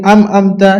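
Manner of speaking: "আম আমতা" with m in both syllables; mistaken first consonant. Retold or imitated. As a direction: say "আম আমতা" as am-amta. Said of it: "অনেকজন পড়ি আম আমতা".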